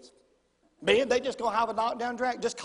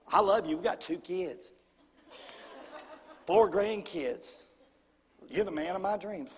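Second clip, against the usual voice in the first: low, gentle coaxing; tender mimicry with pauses; imitating loving wife; 4 semitones lower than usual. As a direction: lightly voice the adoring wife, unhurried. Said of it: "She goes".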